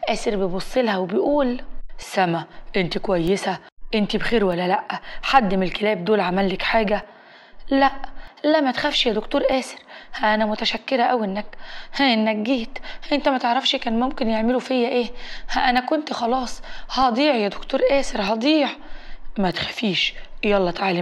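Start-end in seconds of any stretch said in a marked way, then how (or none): 2.0-7.0 understated protective doctor; concerned rescuer. Acted. Rescuer checks on the girl. 7.7-18.7 quick, mildly agitated acted relief; a touch of breathless-girl urgency; shaken gratitude. Rescued girl thanks doctor, shaken.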